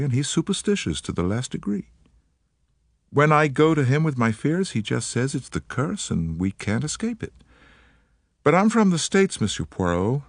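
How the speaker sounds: put-on light American accent, eager and polite; an American woman, gently worried; faint American accent. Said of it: "She spoke with a faint transatlantic accent".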